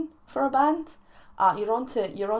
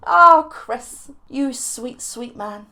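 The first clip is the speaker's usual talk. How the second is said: gushing; 3 semitones higher, 7 dB louder, much slower than usual. Real, not acted. Gushing at patron.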